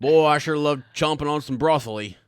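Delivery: loud silly character voice; goofy character voice. Pretend. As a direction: ham up a cartoon voice. Goofy broccoli bit.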